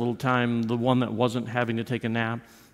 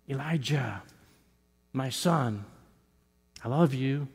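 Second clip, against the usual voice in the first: gentle whisper; 6 dB quieter than usual. Retold or imitated. God softly reassuring Elijah, a gentle whisper. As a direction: speak it gently, like a loving father hushing. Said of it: "in the gentle whisper".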